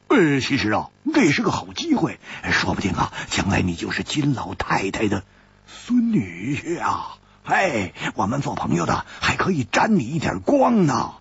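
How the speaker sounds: lightly voiced sly tease; sly teasing. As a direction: tease him about the granddaughter. Hu Tiehua teases Chu.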